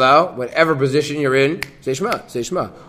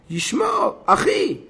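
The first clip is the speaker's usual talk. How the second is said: calling out; 14 semitones higher, slower than usual. Acted. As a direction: call across the room to your friend. Rabbi calls out to colleague.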